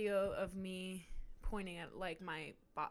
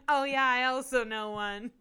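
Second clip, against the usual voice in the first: laughing mock quote; 4 semitones higher, 10 dB louder than usual. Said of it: "And me going".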